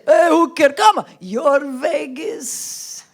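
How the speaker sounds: put-on slow, stretched Arab-accented coaxing; pushy Arab accent. Arab man coaxing her in Vegas, mock Arab accent. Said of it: "they don't take no for an answer".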